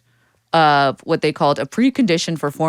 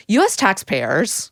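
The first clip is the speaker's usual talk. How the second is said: nerd voice; 3 semitones higher, slower than usual. Acted. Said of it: "your nerd voice".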